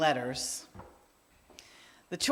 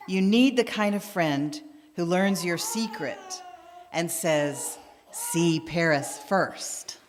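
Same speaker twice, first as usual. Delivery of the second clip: poem reading. Acted. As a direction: read it like a poem shared with the congregation. Reads a poem aloud.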